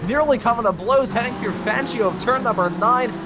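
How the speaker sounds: excited side-by-side race call; motorsport commentator. Real, not acted. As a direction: narrate the wheel-to-wheel fight. Live race play-by-play.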